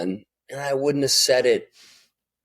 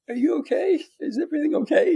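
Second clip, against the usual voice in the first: concerned mother; 14 semitones higher, faster than usual. Retold or imitated. Retells mother checking on him crying.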